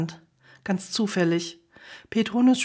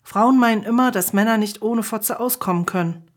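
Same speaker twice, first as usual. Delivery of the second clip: defiant. Acted. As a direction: snap back defiantly. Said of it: "sah der Frau trotzig ins Gesicht".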